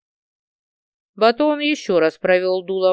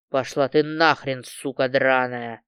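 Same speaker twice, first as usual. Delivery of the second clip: groaning; 8 semitones lower, slower than usual. A narrator's reading. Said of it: "простонал Валет".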